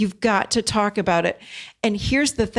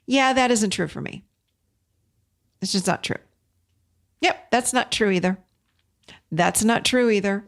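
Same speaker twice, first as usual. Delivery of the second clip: calmly; 2 semitones higher than usual. Retold or imitated. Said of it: "And I just very calmly go".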